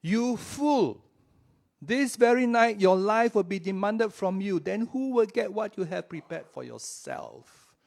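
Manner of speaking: dramatic stern divine rebuke; God's rebuke. Acted. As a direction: pronounce judgment like a divine verdict. God's verdict in parable.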